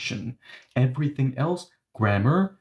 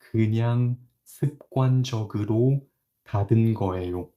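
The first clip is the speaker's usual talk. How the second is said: casual habitual tone; much faster than usual. Shown as a demonstration. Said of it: "Hey, I just closed it habitually".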